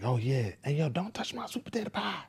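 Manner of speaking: put-on very high, whiny childish voice; mock the kid's bossy yell; imitating daughter yelling. Father retelling his daughter shouting over her pie, high whiny mock yell.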